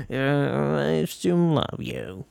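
goofy, drawn-out slow declaration; silly voice. Acted. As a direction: drag it out in a silly put-on voice. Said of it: "that voice always makes me laugh".

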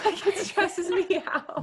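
high, slow laughing complaint. Real, not acted. Friends chatting about an influencer, laughing high and slow. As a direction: laugh through the words at the skincare.

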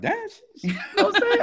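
very high laughing squeal. Real, not acted. To Heather about her TikTok bio, laughing. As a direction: laugh through the words.

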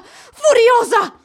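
slow furious exclamation. Acted. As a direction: stretch out the fury. She declares her fury.

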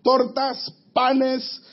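slow, emphatic food list; listing the feast. Acted. Preacher voicing the psalmist listing every food, slow and emphatic. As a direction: stretch out each dish.

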